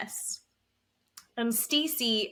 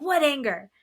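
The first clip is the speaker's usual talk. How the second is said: higher, indignant imitation; mock yelled denial; 4 semitones higher, 4 dB louder than usual. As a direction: act out affronted denial. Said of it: "screaming and yelling at her".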